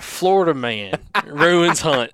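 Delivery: slow, drawn-out headline read with a laugh breaking in; mock news headline. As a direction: read it like a tabloid headline, slowly. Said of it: "I can see the headline".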